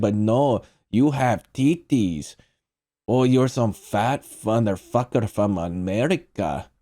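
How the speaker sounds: lightly hammed Russian accent, mocking; a hint of a Russian mobster's Russian accent. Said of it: "there's my Russian accent".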